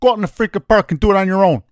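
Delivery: loud, worked-up rant, speeding up at the end; heated rant. Real, not acted. Host ranting to his cohost about youth coaching, loud and heated. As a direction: rant hard against freaking coaches.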